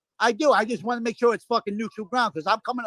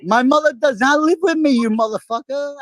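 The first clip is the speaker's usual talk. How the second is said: angry; 4 semitones higher, 4 dB louder than usual. Real, not acted. Heated argument rebuttal.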